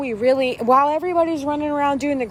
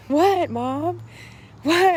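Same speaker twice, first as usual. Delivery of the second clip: lightly voiced child, a little higher; smiling child; 4 semitones higher, much slower than usual. Daughter smiling as mom brings news, lightly imitated smiling child. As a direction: answer Mom with an innocent smile in the voice. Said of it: "And she's smiling".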